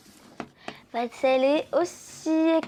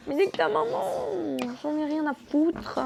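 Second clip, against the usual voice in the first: rude classmate; 3 semitones higher than usual. Acted.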